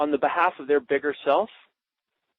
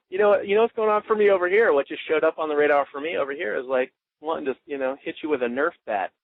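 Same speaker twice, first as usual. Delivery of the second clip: playfully provoking coach. Shown as a demonstration. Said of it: "You're like".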